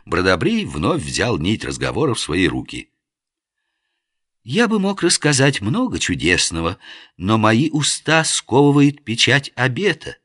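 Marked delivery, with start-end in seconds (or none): 4.4-10.2 solemn pompous. Acted. Lofty solemn oath speech.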